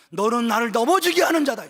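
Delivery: loud quoted rebuke from the pulpit; stern accusation. Acted. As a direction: pronounce judgement with force. Quotes Jesus's accusation to Satan.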